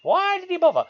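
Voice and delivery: put-on high, loud old man voice. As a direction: play a grumpy old man looking back. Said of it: "that was my old man voice".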